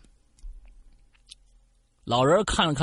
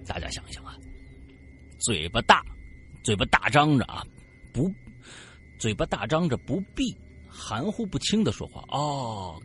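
plain reading voice

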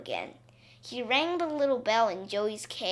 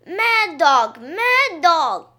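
shouted alarm, louder and higher; calling out; 6 semitones higher, 10 dB louder, much slower than usual. A narrator's reading. Townspeople crying out at the wet dog, shouting. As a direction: yell the warning to the street. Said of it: "called all the people".

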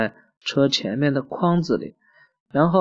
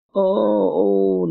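imitated baby crying; 7 semitones higher than usual. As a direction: pretend to cry like a newborn, badly. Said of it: "兰兰叫我学小娃娃". (学小娃娃哭，假装的)

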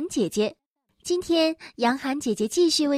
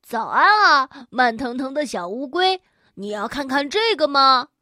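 proud boasting; 5 dB louder than usual. Acted. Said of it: "小袋鼠自豪地把口袋打开".

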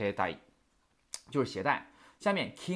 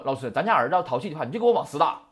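parent's blunt demand; 6 dB louder, faster than usual. Retold or imitated. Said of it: "说".

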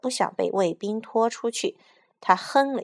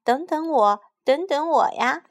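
put-on lame boy calling after friends, higher and louder; panicked call to the other children; anxious shout; 7 semitones higher, 6 dB louder than usual. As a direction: cry out desperately not to be left. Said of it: "急得大叫".

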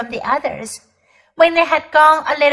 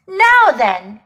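hearty cabby voice; 4 dB louder than usual. Acted. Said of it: "a good, firm, hearty voice".

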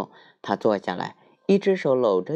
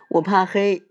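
little bear voice; 10 semitones higher, 6 dB louder than usual. Acted.

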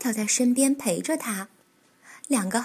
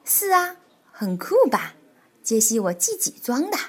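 proud. Acted. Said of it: "海狸尾巴医生自豪地说".

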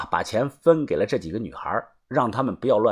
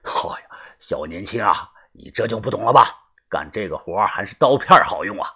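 amused boss; 5 semitones lower than usual. Acted. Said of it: "帮主却笑着说啊".

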